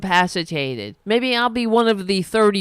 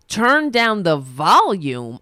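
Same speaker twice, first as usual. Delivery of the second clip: incredulous repeat; 3 dB louder, slower than usual. Real, not acted. Scoffing at the article's demand.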